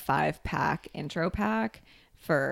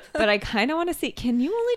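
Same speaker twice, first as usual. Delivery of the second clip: laughing; 10 semitones higher, 5 dB louder than usual. Real, not acted. Curious about cupping.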